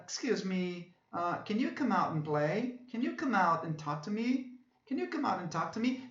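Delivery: lilting English question, "Can you come out" rising and falling melodically; sing-song question intonation. Shown as a demonstration. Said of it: "são cantadas".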